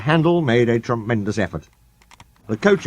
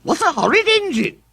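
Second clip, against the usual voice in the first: offended coaches. A narrator's reading.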